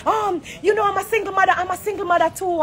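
hammed-up shouting Erica; mock screaming. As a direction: imitate her screaming a scene. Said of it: "I scream down the place".

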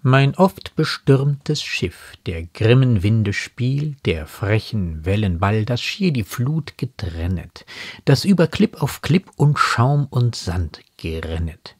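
measured verse reading; lightly declaimed poetry; poem recitation. Acted. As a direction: read the quoted verse deliberately, line by line. Quotes poem verses between commentary.

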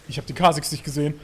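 laut und erschrocken aufrufen; überraschter Ausruf. Real, not acted. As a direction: echter Schreck im Spiel, laut. Erschrickt im Spiel, ruft. (laut erschrockener Ausruf)

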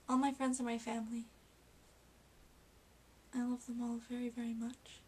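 tearful tenderness. Real, not acted. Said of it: "Oh, I'm getting emotional".

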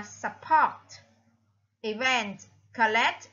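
support, Event, collect, each stressed on its last syllable; second-syllable stress. Shown as a demonstration. Teacher lists matching words, support, Event, collect stressed on the second syllable. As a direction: lean on PORT, VENT and LECT. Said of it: "là âm thứ hai".

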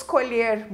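COLHER with a closed E. Shown as a demonstration. Teacher giving a strawberry-picking example, closed E in colher. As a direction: say colher slowly with the closed vowel. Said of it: "a pronúncia com o som fechado".

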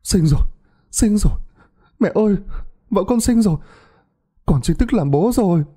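new father shouting with joy; joyful shout. Acted. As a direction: burst out with joy at the birth. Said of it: "Chú Hải hét lên".

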